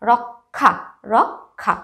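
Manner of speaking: রক্ষা slowly, k then aspirated kh; রক্ষা pronounced rok-kha. Shown as a demonstration. Teacher recapping k plus kh, রক্ষা as rok-kha. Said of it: "এখানে উচ্চারণটা হচ্ছে".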